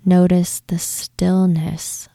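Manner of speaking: calm, even meditation voice with long pauses; unhurried visualization, leaving space to breathe; guided meditation. Acted. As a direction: guide listeners gently, phrase by phrase.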